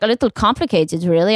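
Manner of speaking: a hint of German accent; mock German woman. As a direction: imitate a doubtful German woman, plainly voiced. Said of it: "I'm making her German".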